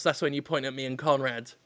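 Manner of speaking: ordinary delivery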